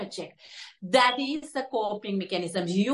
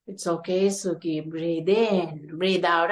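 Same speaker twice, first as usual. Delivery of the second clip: low, soothing words to herself; lightly acted meditation self-soothing; calming self-talk; 6 semitones lower than usual. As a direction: talk yourself down in a lower, reassuring voice.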